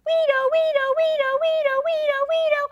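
put-on high, loud child siren wail; siren imitation. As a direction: wail like a fire engine siren.

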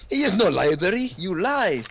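mock accusing shout. Real, not acted. Accusing teammate over bad callout.

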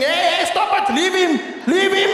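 mock neighbour yell. Neighbours screaming in community.

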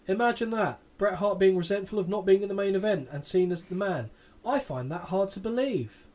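lightly voiced smug sneer; sarcastic Shawn. Host quoting Shawn with light sarcasm. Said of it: "Laced with sarcasm".

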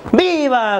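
reply by reflex to the slogan; acted crowd shout. Comic recalling his mistaken answer to the president, mock shouting. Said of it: "yo estaba gritando".

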